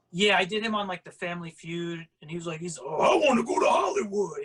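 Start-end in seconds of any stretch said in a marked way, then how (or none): 2.8-4.5 loud, big, booming monster voice. A performer recalls doing Sweetums on Family Feud, big monster voice. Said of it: "has that big monster voice".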